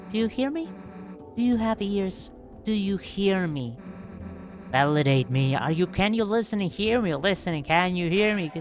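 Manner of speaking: pleading turning to a shout; rising frantic demands to be heard; desperate yelling. Acted.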